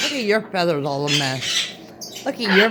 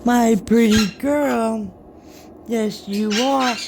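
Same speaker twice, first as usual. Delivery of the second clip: slow, drawn-out cooing, louder; doting pet talk; 3 dB louder than usual. Real, not acted. Owner praises her pretty parrot, doting and slow. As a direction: gush slowly over a pet.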